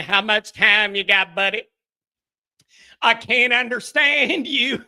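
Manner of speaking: Clayton Bigsby. Acted. Host showing off his favorite impression, lightly drawled character voice. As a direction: draw the words out in a light Southern impression. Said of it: "Clayton Bigsby's my favorite impression".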